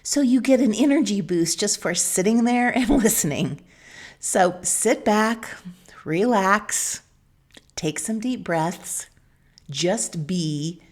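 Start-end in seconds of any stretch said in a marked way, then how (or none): 4.2-10.8 slow, softening, with space between phrases; calm invitation. Real, not acted. Host settling listeners in to relax and breathe, calm and slow. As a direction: ease them gently into rest, unhurried.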